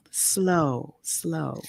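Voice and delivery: soft, drawn-out, falling words; slow their breathing with your voice; calming coaching. A narrator's reading. Father coaching injured woman's breathing.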